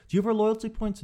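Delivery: upbeat sales offer; chirpy clerk pitch. Retold or imitated. Clerk pitching points, chirpy and high. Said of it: "Listen to how I say no".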